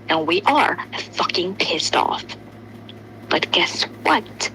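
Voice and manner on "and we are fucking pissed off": angry whisper. Real, not acted. Angry rant at Simp.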